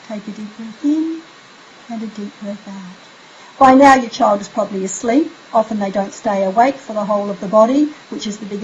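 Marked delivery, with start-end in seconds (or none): 0.1-3.0 much softer, sleepy breath instructions; soft breathing cue. Shown as a demonstration. Mum guiding sleepy child's breath, very soft. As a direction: breathe the words out like falling asleep. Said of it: "Your voice would get more and more sleepier".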